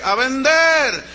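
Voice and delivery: loud, drawn-out chant; slow crowd shout. Retold or imitated. Employees shouting back at the motivator, slow. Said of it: "Dígalo más fuerte".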